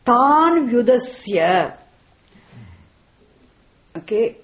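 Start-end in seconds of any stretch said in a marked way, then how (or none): 0.0-1.8 "Tan Vyudasya" said slowly and firmly, each word set down; assertive. Retold or imitated. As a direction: quote Shankara with slow, firm assertion, "Tan Vyudasya" weighted. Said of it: "she looked at the very assertively".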